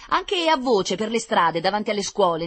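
rousing planning. A narrator's reading. Girl planning to spread the word in the streets, rousing. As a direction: build excitement through the list. Girl rallies children with her plan.

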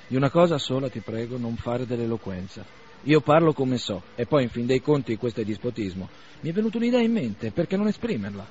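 a hint of a blunt young man, annoyed; lightly voiced Bazarov, testy. Bazarov scolding Arkady for fine talk, mildly annoyed. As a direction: push back, a little heated.

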